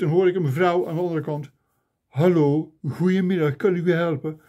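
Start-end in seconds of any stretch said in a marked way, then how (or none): 2.1-4.4 lightly attempted Flemish accent; a rough go at Flemish phone greeting. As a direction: imitate a Flemish woman answering the phone. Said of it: "Met een Vlaams accent. Ik kan het niet helemaal nadoen".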